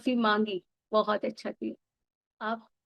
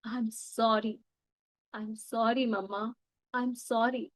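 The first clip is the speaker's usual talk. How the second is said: tender apology; 5 dB quieter, much slower than usual. Shown as a demonstration. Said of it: "इनसे सबसे ज्यादा माफी मांगो".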